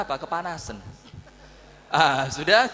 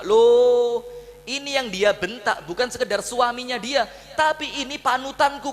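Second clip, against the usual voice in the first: loud, high indignant protest; a father defending the Prophet, fuming; indignant outburst; 4 semitones higher, 3 dB louder than usual. Acted. Abu Bakar outraged at daughter. (marah, suara tinggi dan keras)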